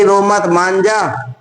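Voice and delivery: slow soothing coax; husband soothing his hungry wife, slow and gentle. Retold or imitated. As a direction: slowly coax a crying wife. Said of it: "उनके पति बोला कि".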